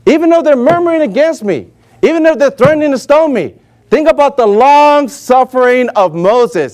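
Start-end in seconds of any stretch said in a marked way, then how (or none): 0.1-3.6 pleading. Retold or imitated. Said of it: "He's like".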